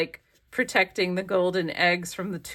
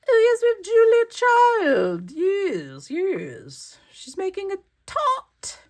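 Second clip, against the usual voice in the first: much higher, louder delighted squeal; gushing excitement; 13 semitones higher, 6 dB louder, slower than usual. Real, not acted. Crafter spotting the Julia Child page, thrilled squeal. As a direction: squeal it like you just spotted a favorite.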